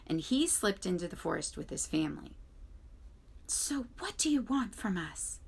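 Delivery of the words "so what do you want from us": higher sly fox voice; growling fox. A narrator's reading. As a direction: growl it suspiciously. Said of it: "growled Fink".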